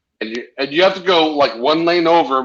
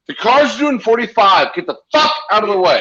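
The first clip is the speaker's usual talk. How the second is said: mock angry yell; 8 semitones higher, 3 dB louder than usual. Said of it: "and I'm like".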